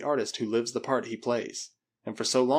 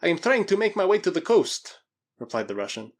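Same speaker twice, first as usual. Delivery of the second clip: high, loud, desperate explanation; pleading Russian; 7 semitones higher, 6 dB louder than usual. Acted. Krasky explains his journey to the Spaniard, high and desperate. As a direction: plead your case with raised pitch.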